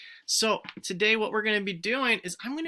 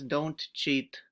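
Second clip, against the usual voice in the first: Broby voice; 5 semitones lower, 6 dB quieter than usual. Pretend. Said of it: "Broby says".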